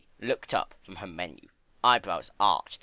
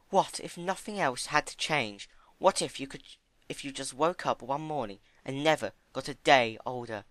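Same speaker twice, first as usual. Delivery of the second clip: earnest Fluttershy; 6 semitones higher than usual. Acted. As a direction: gently insist. Fluttershy voiced.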